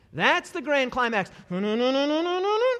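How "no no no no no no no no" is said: imitated swell, rising in pitch and volume; building. Shown as a demonstration. Preacher sounds out the grand climax, building. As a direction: hum a climax climbing higher and louder. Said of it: "It's building".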